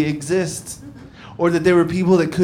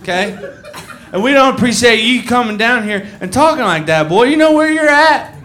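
angry redneck woman; 7 semitones higher than usual. Retold or imitated. Drunk woman lecturing in southern voice.

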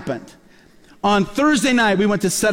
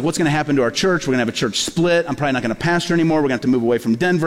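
lower, racing worried thoughts, imitated; retold panic; 4 semitones lower, faster than usual. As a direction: rush through the fears as they pile up. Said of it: "And then I started getting scared".

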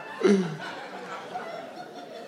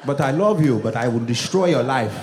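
lower, stern dad lecture; a hint of a stern father laying down the law; strict immigrant father; 5 semitones lower than usual. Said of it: "one of those dads who's like".

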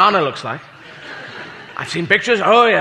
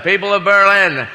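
mock presidential oratory; President Kennedy; 3 semitones lower than usual. Touring president addresses Hamburg, mock grand oratory. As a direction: declaim it grandly, slowing at the end. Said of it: "if he'd toured before and he'd come through Hamburg".

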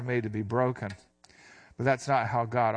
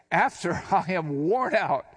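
laughing to herself; 3 semitones higher, slower than usual. Acted. Preacher voicing Sarah laughing at the promise of a baby. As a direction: chuckle through it as if it's absurd. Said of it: "Sarah laughed to herself, saying".

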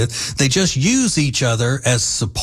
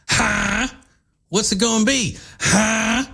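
challenging; 9 semitones higher than usual. Real, not acted. Challenging the ladies.

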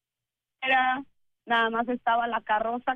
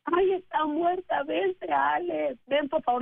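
retold panicked plea; 4 semitones higher, slower than usual. Officer's panicked call retold.

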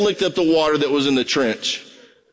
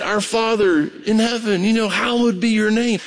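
thoughtful prayer; 7 semitones higher than usual. Shown as a demonstration. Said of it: "Stop and think about it".

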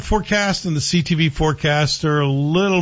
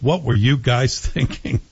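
laughing. Real, not acted. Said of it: "I can't say that without laughing".

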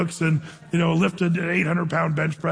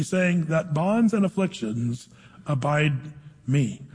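scripture reading. Acted. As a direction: read the King James verse with weight. Reads Acts aloud to congregation.

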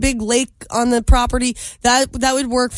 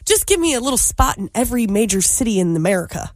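put-on light Southern American accent; a lightly drawled Southern accent, daydreaming rich; 2 semitones lower, faster than usual. Billionaire daydream to co-host, in a light Southern accent. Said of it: "why did you put that accent on".

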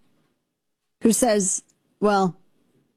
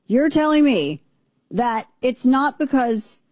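mock wrestler voice; 5 semitones higher, slower than usual. Shown as a demonstration. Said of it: "I was imitating".

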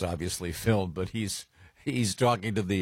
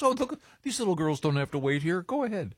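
higher-pitched imitation of a sweet lady; retold kindly offer; 9 semitones higher than usual. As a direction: wave the kids through, voice lifted. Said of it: "That was so sweet".

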